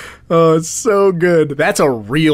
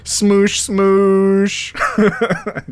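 higher, drawn-out mock impact noise; imitated squash noise; 5 semitones higher than usual. Co-host mimics kid hit by car, imitated squash noise. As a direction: stretch the second one out comically.

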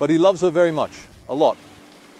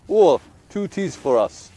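slow, raised call for the tea; calling out an order; 4 semitones higher, 3 dB louder, slower than usual. Retold or imitated. Old man calling to the tea server, slow raised call.

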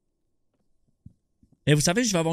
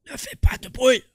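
louder, half-joking repeat; mock loud warning; 8 semitones higher, 6 dB louder than usual. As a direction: say it out loud, teasing. (avertissement fort pour rire)

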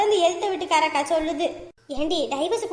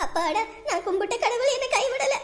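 high, laughing mock relief; gleeful relief; 6 semitones higher, 3 dB quieter than usual. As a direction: chuckle with wicked delight. Gleeful relief after mother's call. (சிரிப்புடன் நிம்மதி)

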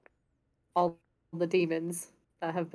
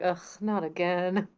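put-upon sigh. Retold or imitated. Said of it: "has a put upon face".

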